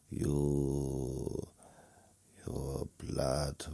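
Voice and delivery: very slow hypnotic vampire; lightly voiced vampire lulling you. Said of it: "now sounding like a vampire".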